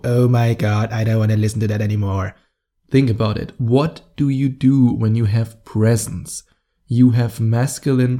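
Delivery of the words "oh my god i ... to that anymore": annoyed listener. Retold or imitated. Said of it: "before you close this and go".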